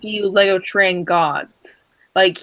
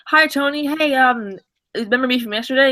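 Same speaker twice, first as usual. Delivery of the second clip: higher-pitched retold hello; eager greeting; 5 semitones higher than usual. Young builder greeting his idol the next day, eager. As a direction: re-enact a hopeful fan's hello.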